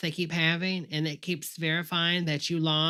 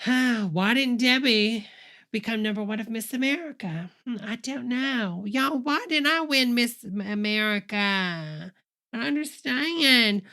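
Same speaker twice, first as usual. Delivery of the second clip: whiny mock complaint; 4 semitones higher than usual. Mocking Trump's lost-contest whine.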